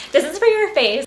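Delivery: loud, high, through laughter; laughing realisation. Retold or imitated. Vlogger retelling her soap mistake, laughing realisation. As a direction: blurt it out while laughing.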